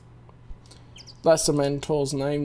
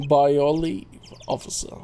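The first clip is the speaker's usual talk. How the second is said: put-on German accent; 4 semitones lower than usual. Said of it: "German accent".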